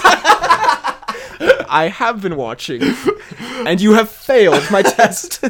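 slow, menacing villain read; ominous voice. Shown as a demonstration. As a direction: drag out each word like a looming threat. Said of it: "Kinda ominous".

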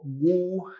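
wu with a gu-like W onset; wu erróneo. Shown as a demonstration. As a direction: put a consonant before the U in wu. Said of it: "como algunos dicen". (wu con consonante inicial)

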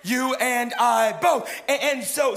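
loud, high preacher cadence; fiery preaching. Acted. Preacher pressing the congregation, loud fervent preaching. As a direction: drive it home to the congregation.

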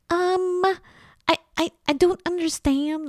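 put-on high-pitched Los Angeles Valley girl accent, hesitant. Imitating her own flustered Valley girl accent at the hardware store. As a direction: play up a confused Valley girl accent, lots of ums. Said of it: "that kind of Los Angeles Valley girl".

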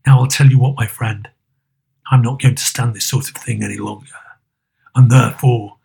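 low, feigned stern growl; grumpy boss laying down the law; Scrooge. A narrator's reading. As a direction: build a threat in a gruff low voice. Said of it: "growled Scrooge in his accustomed voice".

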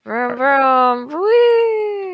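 put-on childlike car noises, then a high whee; playful vroom. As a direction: zoom off gleefully. Playful driving noises in game.

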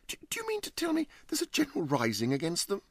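high, fast flustered gentleman; flustered host voice. Acted. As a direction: stammer in rising alarm. Huddle's high voice.

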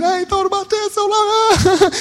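high, strained voice of a big man moved; lightly voiced, choked-up remembering; touched recollection. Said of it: "He said".

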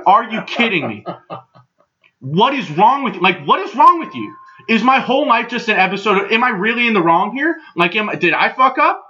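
exasperated disbelief; worked-up, incredulous questioning; indignant outburst. Retold or imitated. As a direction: tell him off, utterly appalled. Acted outburst at the promoter.

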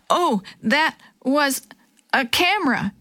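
breathless, broken by gasps; out of breath. Acted. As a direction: gasp it out after running. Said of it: "she said between breaths".

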